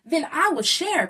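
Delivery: loud happy promise; eager high I will share; cried out. Acted. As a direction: cry out with relief. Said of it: "cried Buzzle Billy".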